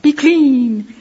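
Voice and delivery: dreaming of magic chores, playful mock command. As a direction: order the dishes to clean themselves, laughing. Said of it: "be like".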